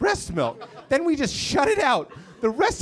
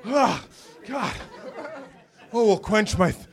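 hammed-up thirsty guy gulping milk; mock milk drinker. Roommate coming home on a hot day, in mock thirsty relish. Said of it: "just like".

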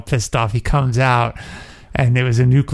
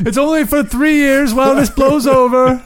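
much higher, louder mock-posh voice; 12 semitones higher, 3 dB louder than usual. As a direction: reassure like a prissy aristocrat.

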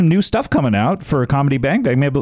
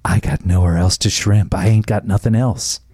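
sexy voice; 5 semitones lower than usual. Pretend. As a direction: purr it out like a seducer. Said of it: "do the sexy voice again".

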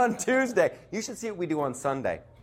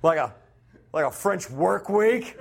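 laughing while repeating. Real, not acted.

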